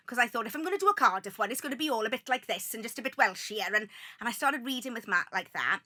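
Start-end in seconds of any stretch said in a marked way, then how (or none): 0.5-3.7 lightly put-on Welsh Valleys accent. Actress recalling her made-up Cardiff audition voice, Valleys accent. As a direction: lean a bit Welshier, into the Valleys. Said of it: "must have been like a Valleys accent".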